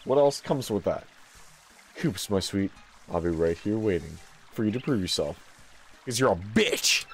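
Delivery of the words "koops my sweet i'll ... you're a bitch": lower, softer fond parent voice; tender parent. Acted. Parent bidding Koops farewell, low and soft. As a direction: send your son off gently.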